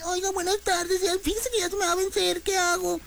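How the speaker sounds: high, sugary polite phone voice; overly polite caller. Retold or imitated. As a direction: put on a sweet helpless tone. (llamando al banco con voz aguda y melosa)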